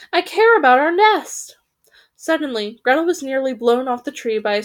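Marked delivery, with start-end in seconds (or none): 0.1-1.6 high, raised, indignant wail; anguished raven cry. A narrator's reading. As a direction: cry out for the ruined nest. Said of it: "the third raven cried".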